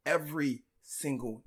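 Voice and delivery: talking through a retainer; words slurred round a retainer; wearing a retainer. Real, not acted. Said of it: "if I sound a little weird, people, I have my, my retainers in right now".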